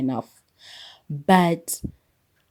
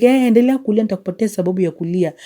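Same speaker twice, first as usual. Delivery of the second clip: mock threatening mother; 3 semitones higher, 5 dB louder, much faster than usual. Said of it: "how mothers used to threaten".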